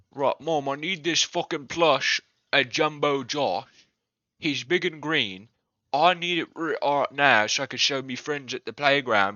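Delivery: lightly voiced demanding toddler with a hint of a British accent; toddler impression. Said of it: "my toddler impersonation is just like a British guy".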